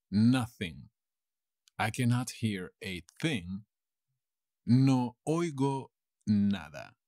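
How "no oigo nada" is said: slow, connected teaching delivery; slow model sentence. Shown as a demonstration. Teacher translates for learners, slow model sentence. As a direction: say it slowly as one phrase.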